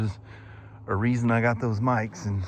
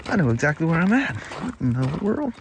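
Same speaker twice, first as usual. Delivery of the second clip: higher-pitched mock astonishment; retold amazement; 6 semitones higher than usual. Rider retelling where the dirt road popped out, amazed. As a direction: replay your surprise, pitched up. Retells his surprise at the spot.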